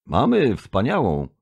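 eager assurance. A narrator's reading. Envoy vouching for Earth's culture, eagerly assuring. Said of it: "zapewniłem go".

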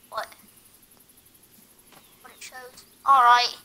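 light put-on British accent. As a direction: play a chipper British soldier. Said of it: "What's with the Australian accent?".

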